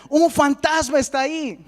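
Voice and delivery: high-pitched mock cry of alarm; acted frightened cry. Trembling disciples cry out at a ghost, acted fright. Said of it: "comienzan a temblar y gritan".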